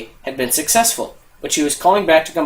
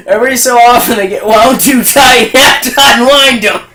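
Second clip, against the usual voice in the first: tag; 7 semitones higher, 8 dB louder than usual. Retold or imitated. Friend's punchline, told while cracking up.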